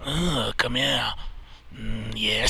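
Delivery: slow put-on Aussie voice; mock Australian accent. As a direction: drawl it like the Aussie admiral. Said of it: "I don't wanna do that accent".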